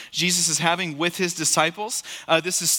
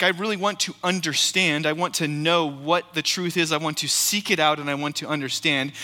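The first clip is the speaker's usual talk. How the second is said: sincere. Retold or imitated. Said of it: "ask that question sincerely".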